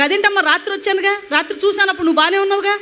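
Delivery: the doctor panicking at the sight of her; alarmed doctor. Retold or imitated. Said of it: "కంగారుకు వచ్చేసి doctor గారు". (కంగారుపడ్డ doctor లా, ఎత్తైన గొంతుతో ఆందోళనగా)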